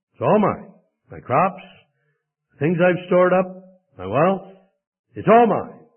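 lightly acted, emphatic claim of ownership; possessive rich man. Preacher voices the possessive rich man.

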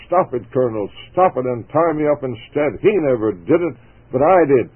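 choked shout. Acted. Jim begging the colonel to stop the flogging, shouting. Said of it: "with choking voice shouted".

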